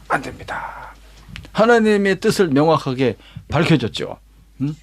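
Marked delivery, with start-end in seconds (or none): 0.1-0.9 hushed, voiceless no; a priest's whispered no to the king; whispered refusal. Acted. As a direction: breathe the refusal out under your breath. Priests block the king quietly.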